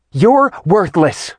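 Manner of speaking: slow, high shriek, far off; shriek from another room. A narrator's reading. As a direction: drag out the shriek from the next room. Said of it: "Artemis's shriek from the other room".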